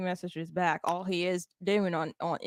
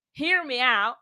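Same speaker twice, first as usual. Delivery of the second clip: put-on drawn-out country accent, slow; slow, louder country twang; 3 semitones higher, 5 dB louder than usual. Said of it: "let's hear you doing your country accent".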